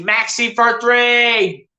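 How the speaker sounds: drawn-out, rising-energy shot call; excited shot call. Real, not acted. Commentator calls a three-pointer live, excited and drawn out. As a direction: stretch it out as the shot flies.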